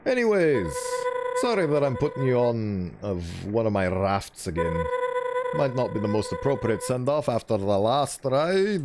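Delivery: light Scottish lilt for Martlet; a gentle Scottish farewell, lightly accented. Acted. Martlet saying goodbye to a friend, light Scottish accent. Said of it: "With the accent you gave her".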